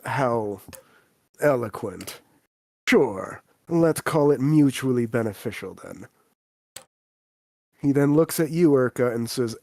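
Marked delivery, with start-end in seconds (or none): 0.1-6.1 dry, unimpressed reply; deadpan. Acted. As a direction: answer the insult without rising to it. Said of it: "he just deadpans at you".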